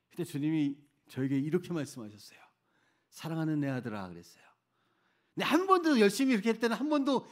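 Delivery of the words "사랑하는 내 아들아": gently lowered, understated address; tender retold reply. God answers the complaining missionary, tender.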